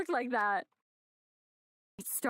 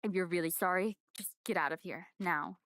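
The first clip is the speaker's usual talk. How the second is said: Kyoko voice; 4 semitones lower than usual. Acted.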